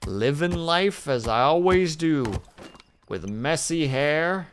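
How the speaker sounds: a hint of a lazy easygoing fellow; mock carefree guy. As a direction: lightly voice a content drifter. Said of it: "He's just out here being like".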